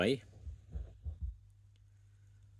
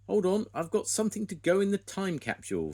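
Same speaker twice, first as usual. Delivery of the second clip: much higher, louder hurried call; eager call; 13 semitones higher, 6 dB louder than usual. A narrator's reading. Farmer Pickles rushing over with something for the capsule, loud. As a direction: call out while running up.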